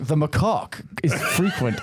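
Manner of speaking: mock English accent. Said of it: "heavy English accent going".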